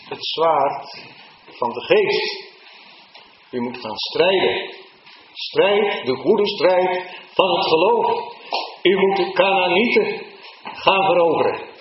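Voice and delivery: high, loud, rousing call to fight; rally them to the fight of faith; fervent preaching. Acted. Preacher at full force. (hoog en luid, opzwepend preken)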